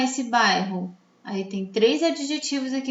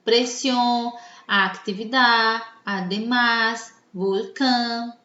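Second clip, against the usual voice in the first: "presión, actividad, además, volcán", each leaning on its final syllable; stress on last syllable; slower than usual. Shown as a demonstration. Teacher gives examples of "agudas", stressing the last syllable of presión, actividad, además, volcán. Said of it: "a última sílaba é a mais forte".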